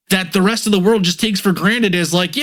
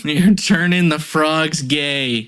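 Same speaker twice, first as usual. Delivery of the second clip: slow, drawn-out mock rant with a laugh; more Alex Jones; 2 semitones lower, much slower than usual. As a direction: stretch it out slowly, laughing through it. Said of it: "You gotta do it with a little bit more".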